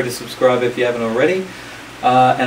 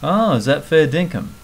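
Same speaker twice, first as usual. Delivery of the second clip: Aussie disbelief; 5 semitones higher, 4 dB louder than usual. Shown as a demonstration. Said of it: "Example sentence".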